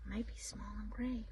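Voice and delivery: quick unvoiced whispered hint; fast whisper. Real, not acted. Hinting the answer to child.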